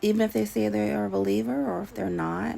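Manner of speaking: speaking with a retainer in; talking around a dental retainer; wearing a retainer. Real, not acted. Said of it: "Even if my retainer and I'm trying".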